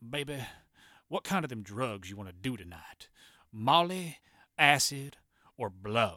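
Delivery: put-on broad, thick southern Memphis accent, laid on heavily. Retelling what a man from Memphis said to his wife: southern Memphis accent. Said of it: "Southern Memphis accent possible said".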